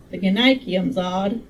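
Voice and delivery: slow, lightly Southern character voice; a tentative stab at a Southern drawl; attempted Southern accent. Medical man examining flowers, lightly attempted Southern accent. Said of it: "I tried to make him Southern".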